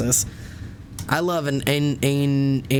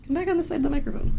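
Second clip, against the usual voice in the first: pet-talk voice; 13 semitones higher, much faster than usual. Real, not acted. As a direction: coax the cat back in a squeaky pet voice. Coaxing the cat to the mic.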